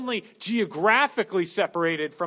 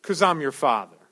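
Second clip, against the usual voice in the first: mock stern father; 4 semitones lower, 5 dB louder than usual. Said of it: "he always did that pause".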